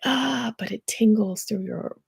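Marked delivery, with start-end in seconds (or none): 0.0-0.5 pre-sneeze gasp. Retold or imitated. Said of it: "you're about to sneeze and you're like".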